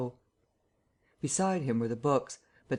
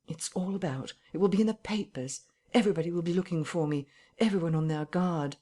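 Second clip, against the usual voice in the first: higher, hurried anxious voice; agitated worry; 4 semitones higher than usual. Acted. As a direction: rattle off the fears quickly. Invisible man anxious, hurried.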